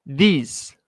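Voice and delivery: "These" said as "diz"; pronunciation model. Shown as a demonstration. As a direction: say "These" cleanly as "diz" for repeating. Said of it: "repete aí comigo".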